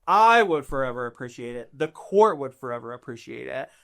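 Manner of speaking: lightly voiced, chatty noble with lively pitch swings; persuasive court noble. Court noble asking adventurers to fetch a tablet, persuasive. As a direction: stretch the key words to coax them.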